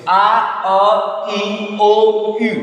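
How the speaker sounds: evenly chanted French vowels; slow classroom recitation, letter by letter; vowel drill. Shown as a demonstration. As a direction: hold each vowel long and level. Teacher drills vowels for learners.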